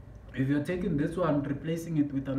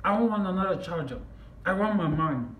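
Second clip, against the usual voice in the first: retold angry refusal, lightly raised voice; retold anger; 2 semitones higher than usual. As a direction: refuse firmly, a touch heated. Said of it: "I'm getting angry".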